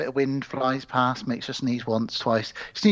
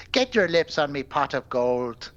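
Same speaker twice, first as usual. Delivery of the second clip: lightly voiced leprechaun; a hint of mock-Irish leprechaun. Picturing Warwick Davis on his wedding night, light leprechaun voice. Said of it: "as the leprechaun".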